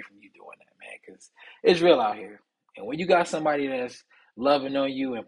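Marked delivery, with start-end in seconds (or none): 0.0-2.4 hushed, breathy aside; whispered truth to his listeners; confiding whisper. Real, not acted. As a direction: lean in and whisper it like a secret.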